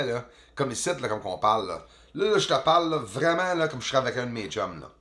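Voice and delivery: rapid, casual Québécois slang with every "là" punched; heavy joual Québécois accent, loud and quick; broad Québécois accent. Shown as a demonstration. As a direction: talk like a Quebecer chatting with a buddy. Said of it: "Fait que je te montre, euh, le vrai de vrai accent".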